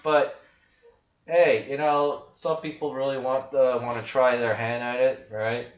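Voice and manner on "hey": ordinary delivery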